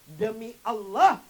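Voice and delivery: drawn-out, loud vow; slow bitter oath. Acted. Mother refusing her son, slow bitter oath. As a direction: lean hard into the oath. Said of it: "Apa kata ibunya Alkamah?".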